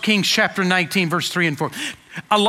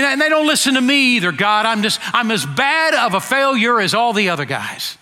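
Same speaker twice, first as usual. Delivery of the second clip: Elijah's complaint; 3 semitones higher than usual. Retold or imitated. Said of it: "And now he's saying".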